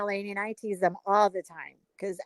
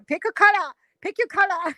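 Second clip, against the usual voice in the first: mock Chinese accent; 5 semitones higher than usual. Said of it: "they wanna always make you".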